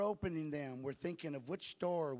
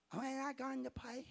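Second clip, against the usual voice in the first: put-on broken German accent; 8 semitones higher than usual. Missionary's wife asking about grace at breakfast, broken German accent. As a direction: imitate halting English with a German accent. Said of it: "In her broken accent".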